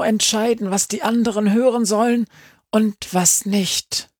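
hohe Stimme einer alten Hexe; alte Hexe. A narrator's reading. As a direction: belehrend wie eine erfahrene Hexe. Old witch in Befana's head. (hohe, belehrende Hexenstimme)

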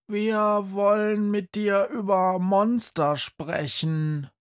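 put-on a determined girl at the door; girl's voice. Girl to the man at the door, insistent. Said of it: "sagt ein Mädchen".

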